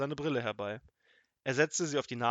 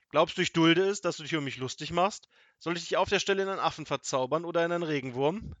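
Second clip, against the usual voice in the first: loud, high-pitched tirade, speeding up; angry threat; 5 semitones higher, 7 dB louder, faster than usual. A narrator's reading. Wizard threatens to bewitch Kasperl, angry. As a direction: rage at someone mocking you.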